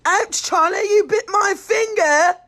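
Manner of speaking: mock-hurt English accent scolding the cat; an English-accented ouch after the cat bites. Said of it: "I'm able to say".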